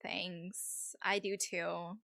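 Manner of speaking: lightly voiced Valley girl; a hint of Valley-girl accent. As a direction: play it as a mild Valley girl. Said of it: "This accent is definitely".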